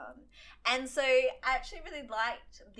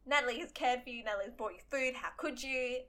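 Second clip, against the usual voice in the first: mock reproach; 2 semitones higher, 3 dB louder than usual. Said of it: "I was sitting there going".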